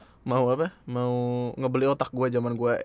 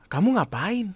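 put-on girl voice; 7 semitones higher than usual. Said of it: "Gua pasti suara cewek ya?".

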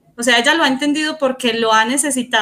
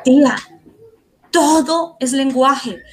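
quoting niece; 4 semitones higher, slower than usual. Retold or imitated. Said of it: "me decía".

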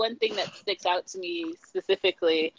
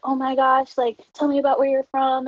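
put-on eager kid gush; 6 semitones higher, 3 dB louder than usual. Eager child self quoted.

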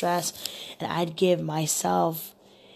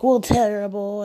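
higher, louder mopey imitation; mock moaning; 4 semitones higher, 6 dB louder than usual. Woman mimicking her date declining to talk, mock moaning. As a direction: imitate a man close to tears. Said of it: "he was crying and he was moaning".

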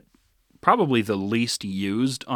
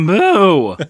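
loud, high mock boo; playful loud booing echo; imitated cracking boo; 7 semitones higher, 11 dB louder than usual. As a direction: copy a cracked, drawn-out heckle. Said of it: "You got that voice crack in there".

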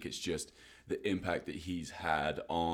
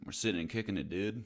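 put-on American accent, slightly raised; 4 semitones higher than usual. Shown as a demonstration. Showing his co-host his own American accent. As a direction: do your not-very-convincing American accent. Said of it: "That is my American accent".

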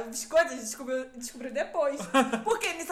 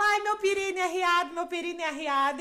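laughing mom; 4 semitones higher, 3 dB louder than usual. Retold or imitated.

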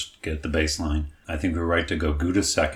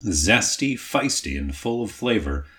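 slow, hammy ad read; cereal mascot; 3 semitones higher, slower than usual. Pretend. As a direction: sell it like a cartoon mascot. Reading snack bag copy aloud.

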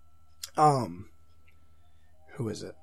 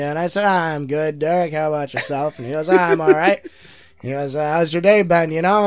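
Norm Macdonald impression; 2 semitones higher, 5 dB louder than usual. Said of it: "they like my Norm impression".

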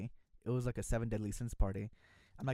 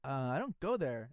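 drawn out, matter-of-fact; slow deadpan; slower than usual. Retold or imitated. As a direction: let it land slowly and flatly. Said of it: "I said that".

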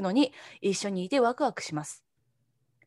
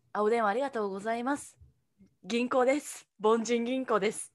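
customer service voice; 5 dB quieter than usual. Retold or imitated. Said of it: "って言ってさ".

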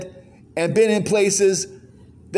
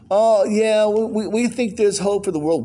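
a touch of a limp, whiny Christian; mock whine; 3 semitones higher than usual. Preacher mocking weak Christians on TV, mildly whiny. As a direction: imitate a feeble believer, lightly whining. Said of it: "Whine, whine, whine".

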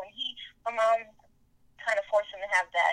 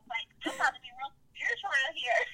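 self-mocking; 3 semitones higher than usual. Mocking her old vegan self.

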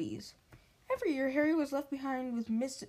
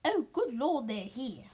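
frantic; slower than usual. Acted. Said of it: "said Aunt Petunia frantically".

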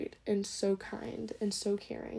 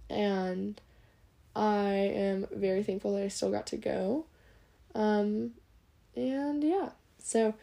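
sleepy mumbling. Real, not acted. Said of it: "I'm literally falling asleep as I am talking, and I keep mumbling".

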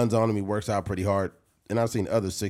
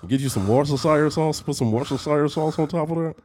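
higher-pitched, nasal mock fat man; nasally fat voice; 4 semitones higher than usual. Podcaster playing a fat man describing food, nasal fat voice. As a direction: play a hammed-up fat cook talking through the nose. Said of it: "it's kinda nasally too".

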